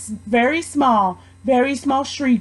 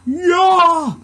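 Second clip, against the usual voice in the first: small high shout; shouted yop; 5 semitones higher, 3 dB louder than usual. Acted. Boy on the tower adding his voice, small shout. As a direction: pop out one bright shout. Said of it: "he shouted out".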